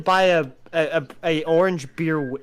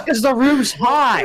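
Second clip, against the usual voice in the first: laughing; 10 semitones higher, 6 dB louder, slower than usual. Real, not acted. Laughing reply.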